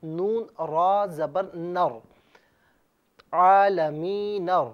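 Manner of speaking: slow, loud spelling out of each letter; teacher spelling aloud slowly; slow spelling recitation. Shown as a demonstration. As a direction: chant the letters slowly and clearly. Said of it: "یوں پڑھیں گے".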